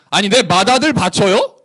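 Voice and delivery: snippy, incredulous challenge; insolent sarcasm. Acted. Israel offering the firstborn to God, insolent. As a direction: throw the offer back with cheek. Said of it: "싸가지가 없는 거죠".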